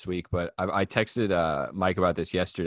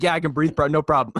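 higher, louder smug bro through a laugh; a dork bragging about his mesh mask; mock bro; 6 semitones higher, 6 dB louder than usual. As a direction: brag like a clueless bro. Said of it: "he's like".

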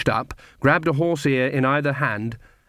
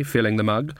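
plain reading voice

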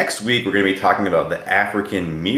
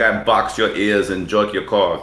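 put-on a weak, hammy Asian accent; imitating an Asian masseuse, badly. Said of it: "my Asian accent was not good".

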